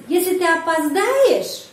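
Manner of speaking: опоздаешь lifted high, then dropping; question stress on verb. Shown as a demonstration. Teacher demonstrating question intonation for learners, stress on опоздаешь. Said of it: "juga penekanan pada kata kerja".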